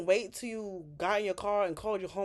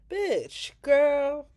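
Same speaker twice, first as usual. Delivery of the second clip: outraged exclamation; 6 semitones higher, 7 dB louder than usual. Real, not acted. Outraged reaction to Chelsea.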